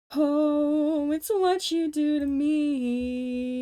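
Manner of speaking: high, loud hammed-up Muppet singing. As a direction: belt it like a puppet character. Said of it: "I can't do the Muppets!".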